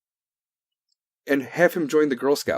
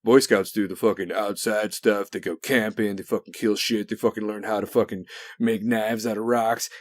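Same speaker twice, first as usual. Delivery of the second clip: mock voice; 4 semitones lower than usual. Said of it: "I'm not saying".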